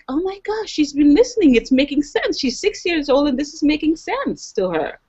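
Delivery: amazed mother. Retold or imitated.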